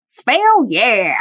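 slow, creepy drawn-out announcer; a lightly creepy, weird game-show voice. Shown as a demonstration. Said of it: "just like that, like, in that voice".

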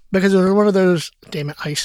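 eating while talking; mouth full. Real, not acted. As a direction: talk around a mouthful of ice. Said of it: "Are you eating again?".

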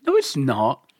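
laughing it off. Real, not acted. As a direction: denies it through a laugh. Laughing denial.

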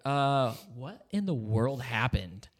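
slow whisper of confusion; hushed, slow what-happened; whispered bewilderment. Retold or imitated. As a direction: breathe it out, stunned. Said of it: "I was just like".

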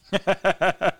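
bad Hispanic accent breaking into laughter; giggling mock Hispanic accent; laughing through bad accent. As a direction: laugh while you fake the Hispanic accent. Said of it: "that accent so poorly".

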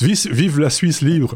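slow, rousing mock independence cry; hammed-up rallying call for a free Switzerland; film quote. Host quoting a film rebel in a mock rallying cry. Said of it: "dans un film".

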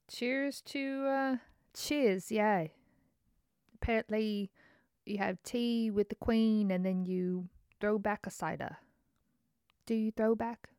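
playful put-on British accent; lightly mock a posh British accent. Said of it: "that's my British accent".

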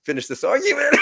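sudden loud high yell, rowdy; retold drunken shout. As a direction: bellow it like a drunk spoiling for a fight. Retelling a drunk return to girlfriend.

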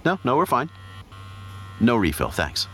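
polite aside. Acted. Couple waved off by the waiter, polite cover. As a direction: act normal for the waiter.

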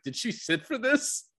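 put-on high, slow, wide-eyed kid asking; a boy's high, wondering question; mock kid voice. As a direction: play an awed boy, lifted high and slowed. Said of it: "And he's like".

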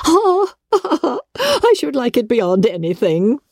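high delighted squeal into a gush; mother thrilled at the thought of balls. A narrator's reading. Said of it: "said her mother".

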